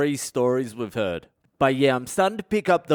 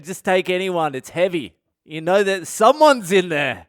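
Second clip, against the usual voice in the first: higher, offhand and pushy; careless nurse; 5 semitones higher, 3 dB louder than usual. Retold or imitated. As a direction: nurse brushing off a family, take any box. Careless nurses handing out coffins.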